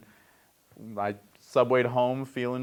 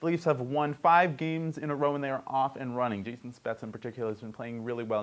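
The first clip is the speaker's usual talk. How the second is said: higher-pitched headline opening, easing down; sports news read; 3 semitones higher than usual. Acted. Host reads hockey news to listeners, news read. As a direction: open the item like a sports anchor.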